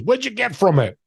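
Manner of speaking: a hint of an Italian mentor pitching a tip; Italian guy. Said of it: "he's an Italian guy".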